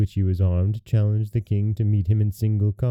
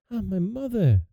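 sad princess; 12 semitones higher than usual. A narrator's reading. Princess answers her weeping mother, sadly. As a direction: sigh it sorrowfully in a raised, delicate voice. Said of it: "replied Bellissima sadly".

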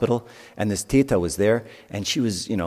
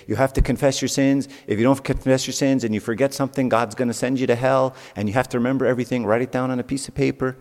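a lightly voiced strict scolding preacher, higher; lightly mock the stern way teachers threaten youth; 4 semitones higher than usual. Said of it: "talk to them about it in all the wrong way".

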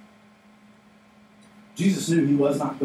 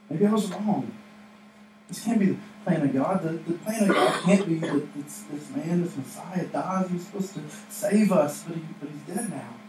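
Peter doubting; 3 semitones higher than usual. Acted. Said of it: "you imagine Peter".

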